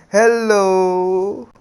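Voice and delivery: high, bright sing-song hello from a creature; a mischievous plant creature's greeting; cheeky Zetsu greeting. Acted. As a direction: pop up and chirp it at them.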